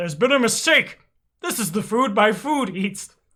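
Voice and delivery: loud, high angry outburst, flung out. Voicing a character who looks up at Svetlana: angry outburst. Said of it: "looks up at Svetlana angrily, and says".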